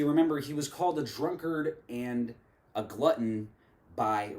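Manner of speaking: measured poetic recitation with deliberate pauses; spoken word poem. Acted. Reciting a poem on religion and Jesus to viewers, spoken word delivery. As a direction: perform it line by line, leaning on the key words.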